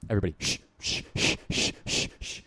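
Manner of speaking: soft, drawn shushes; mock crowd shushing. Mimicking fans hushing everyone for the baby. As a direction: hush a whole train carriage at once. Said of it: "they start shushing everybody".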